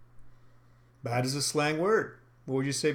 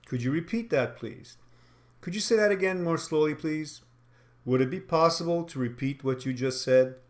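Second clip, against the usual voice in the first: even, rhythmic, carefully spoken politeness; clear, formal request. Shown as a demonstration. Trainer models asking a customer to repeat, clear and formal. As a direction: ask clearly and evenly, softening "please". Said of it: "very clear, very slowly".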